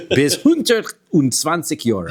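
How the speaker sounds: slow, hammed-up Yiddish accent. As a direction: lean into a thick Yiddish accent. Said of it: "in my worst Yiddish accent that I have".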